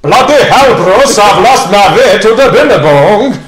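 loud, high, wildly botched Australian; terrible Australian accent. Shown as a demonstration. Host copying the guest's model, loud mangled Australian accent. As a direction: belt out Australian gone badly astray. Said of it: "And I'll go".

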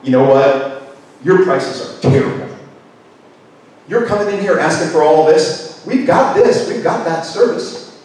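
mildly scornful buyer voice; rising dismissive complaint that fades out; critical parent buyer. Retold or imitated. A buyer playing critical parent to the salesperson, mildly scornful. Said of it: "critical parent says to salesperson".

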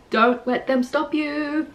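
slow, high-pitched "Don't let them stop you". Shown as a demonstration. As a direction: lift the line high and hold it up through "you". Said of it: "repeating the lines in different ways".

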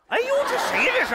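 loud, high mock astonishment; high, loud hammed-up wonder; exaggerated surprise. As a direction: gasp at her as if dazzled. Brother-in-law exclaims at her.

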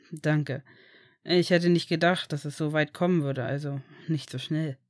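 lightly voiced low man's part; reserved Severus. Severus thanks a friend for congratulations, reserved and low.

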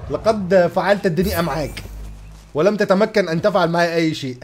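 playful touch of Modern Standard Arabic oratory; mock formal Arabic. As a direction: declaim it lightly in classical Arabic. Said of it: "حته لغه عربيه بقى فصحى".

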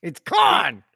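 Cannes shouted as kahn; correcting shout. Shown as a demonstration. Co-host shouting the correction of Cannes, loud. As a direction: bark the French Cannes at him. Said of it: "Uncultured swine".

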